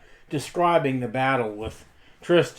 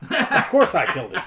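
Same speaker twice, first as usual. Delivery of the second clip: laughing; 3 semitones higher than usual. Acted. Laughing while voicing the dwarf's boast.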